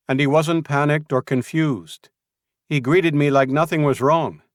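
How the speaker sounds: high, loud, urgent accusation; Rodriguez accusing. Acted. Scout accusing Julian before Luke, high and loud. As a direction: call him a liar to his face.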